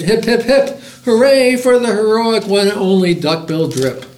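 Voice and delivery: high, celebratory storybook hurrah; happy hooted cheer. A narrator's reading. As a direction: lead three cheers, high-pitched. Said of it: "They hooted".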